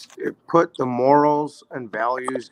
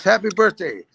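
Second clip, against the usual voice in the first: proud uncle announcing the job, higher and brighter at the start; uncle's birthday surprise; 4 semitones higher than usual. Retold or imitated. Uncle tells nephew he got a job, teasing announcement. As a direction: play the uncle handing over a gift, laughing at the end. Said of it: "And he says".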